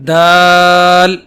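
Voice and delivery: دال slow and loud but plain; simple soft dal. Shown as a demonstration. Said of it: "بہت simple ادا کیا جائے گا". (سادہ اور نرم دال)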